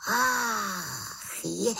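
high startled gasp of realisation; sudden penny-drop cry; exclaimed. Acted. Witch realises the answer, startled cry. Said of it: "zvolala malá čarodějnice".

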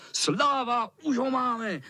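cheering. Acted. Boys cheering as they run at the cat, excited. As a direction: cheer as if you caught him. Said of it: "volali kluci".

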